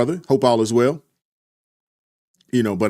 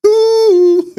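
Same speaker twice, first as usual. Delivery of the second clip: very high, loud shocked squeal; mock shocked ooh; 10 dB louder than usual. Real, not acted. Reacting to a super chat.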